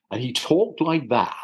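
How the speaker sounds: imitated Dorsetshire accent; Dorset accent. Actor mimicking his father's old friend, Dorset accent. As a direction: talk like an eccentric Dorset man. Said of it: "wonderful Dorsetshire accent".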